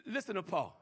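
low, softened call to listen; soft prompt. Real, not acted. Preacher introducing Paul's verse, soft prompt. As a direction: ask for attention softly. First take before hushed repeat.

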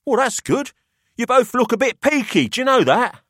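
put-on a wry businessman weighing up the boys; Pelham's voice.

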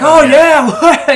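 gleeful high, loud whoop; John McClane. Retold or imitated. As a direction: whoop in mock delight at the destruction. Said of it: "he's so amused with the destruction".

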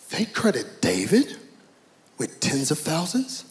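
slow British indignation, dropping low on "but me"; hammed-up British accent, rising in disbelief. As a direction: put on an offended British royal. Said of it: "he has a British accent".

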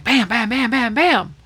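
rapid-fire repeated bams; imitated screen effect. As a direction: punch out each "bam" like a quick cut. Imitating stamps flashing on screen.

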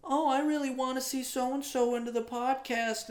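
high, drawn-out mock fan voice; gushing in mock high pitch; mocking whine. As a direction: put on a high, whiny mimic of a fake fan. Mocking that one whiny person.

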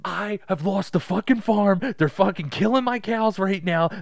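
high, loud mock despair; acted desperate rant. Ruined bettor confessing to losing the farm, frantic mock despair. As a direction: wail your ruin, hammed up.

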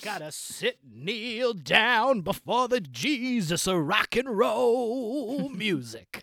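slow reverent rocker, lightly voiced; slow it like a sermon; rock singer voice. Rock singer character preaching about rock, slow. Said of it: "I'm a famous rock singer".

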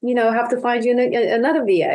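a hint of a sugary brush-off; mock agency voice. Agency telling her they must find another VA, mock apologetic. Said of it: "they're like".

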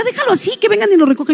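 imitating her friend. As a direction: rattle it off like the amused friend. Friend laughing tells her to leave it.

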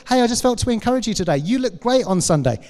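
bright, quick friendly message; cheery text message. Retold or imitated. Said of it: "Just send someone a text".

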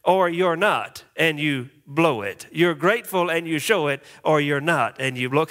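singsong chant for the congregation; broad singsong kids theatre. Shown as a demonstration. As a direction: chant it like a kids' rhyme. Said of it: "Can you say that with me?".

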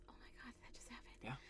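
hushed disbelieving whisper. Retold or imitated. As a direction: whisper it, stifling laughter. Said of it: "and so I was just kinda like".

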